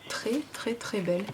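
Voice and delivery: breathy hushed admiration; hushed whisper. Real, not acted. Whispering to viewers over pretty stickers. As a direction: whisper the praise under your breath.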